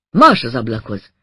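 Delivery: a loud low barked command; sharp order. Acted. Woman orders the narrator to the window with a loud low bark. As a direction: drive him to the window with one bark.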